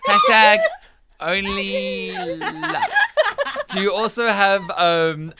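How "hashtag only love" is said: laughing. Real, not acted. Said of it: "laughing repeat of the hashtag".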